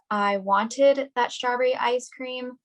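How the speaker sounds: slow line with "wanted" punched and stretched; stress on WANTED. Shown as a demonstration. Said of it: "emphasizing different words can change the focus".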